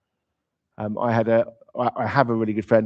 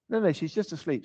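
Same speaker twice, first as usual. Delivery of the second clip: gentle reassurance; 5 semitones higher, 6 dB quieter than usual. Retold or imitated. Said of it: "says Jesus".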